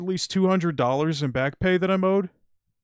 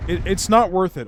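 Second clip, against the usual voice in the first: louder, worked-up venting; heated; 3 semitones higher, 6 dB louder than usual. Real, not acted. Streamer telling viewers the job is not worth it, heated. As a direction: push it out, really fed up. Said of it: "I'm getting a little heated".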